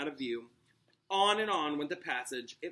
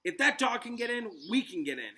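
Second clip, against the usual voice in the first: panted; 8 semitones higher, 4 dB louder than usual. A narrator's reading. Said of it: "Harry panted".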